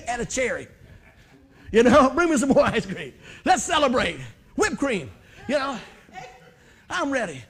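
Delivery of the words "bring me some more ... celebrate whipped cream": louder, laughing call for more ice cream; laughing party order; mock celebration. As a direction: order dessert like it's a party.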